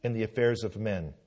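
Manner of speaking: thundering call to sign the Declaration; John Witherspoon speech. Retold or imitated. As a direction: orate like a pastor rousing the signers. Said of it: "He said".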